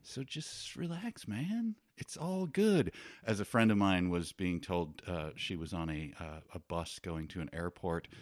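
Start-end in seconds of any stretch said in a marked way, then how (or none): 0.0-2.9 laid-back dude voice. Retold or imitated. Mocking the chill peacemaker.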